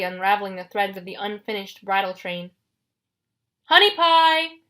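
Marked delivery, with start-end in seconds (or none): 3.6-4.6 loud, high monster bellow; booming, raised-pitch monster shout. A narrator's reading. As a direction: holler it like a big monster calling a sweetheart. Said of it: "the monster shouted".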